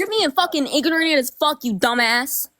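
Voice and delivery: real heated outburst over the other speaker; angry. Real, not acted. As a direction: cut them off with angry cursing. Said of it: "Why are you so angry?".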